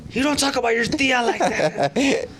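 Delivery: mock stern scolding; scolding relative. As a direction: scold the kid for disrespect. Scolding a cussing cousin.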